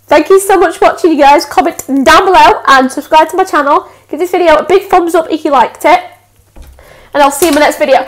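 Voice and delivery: bright fast sign-off; YouTuber outro. Shown as a demonstration. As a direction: rattle off the outro like a pro. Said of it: "Like, be serious".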